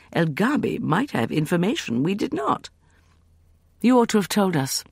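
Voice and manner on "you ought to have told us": accusing. Acted. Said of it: "Evelyn said accusingly".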